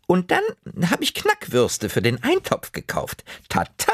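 hohe, langsame Omastimme; kopfschüttelnd, gedehnt als Oma; liebevolle Oma. Acted. Oma präsentiert Würstchen. (Oma zu Anton, hoch und langsam gedehnt)

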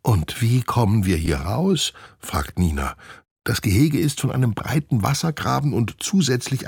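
ask, a touch anxious; worried chimp girl. Acted. Chimp Nina asks how they can escape the enclosure.

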